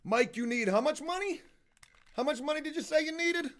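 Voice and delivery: soft teasing repeat; mock sly questioning. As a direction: quietly egg him on to repeat it for the camera. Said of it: "I should have been getting the camera ready".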